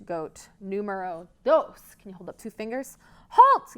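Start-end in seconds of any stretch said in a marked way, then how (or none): 3.3-3.8 very high, loud troll shout; troll yell. Acted. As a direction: halt them with a scratchy yell. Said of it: "yelled the troll in her scritchy".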